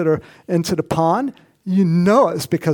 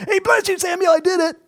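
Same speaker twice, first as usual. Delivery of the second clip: much higher, louder, beaming; cheerful proud greeting; 4 dB louder than usual. Retold or imitated. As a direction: boast like a proud schoolboy. Saul proudly greeting Samuel.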